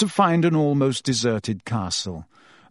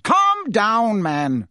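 higher, louder bark; 9 semitones higher, 4 dB louder, much slower than usual. Acted. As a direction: snap him out of it. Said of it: "Fudge barked".

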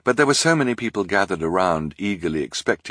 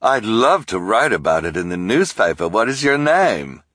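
eager reporter; 4 semitones higher, 6 dB louder than usual. A narrator's reading.

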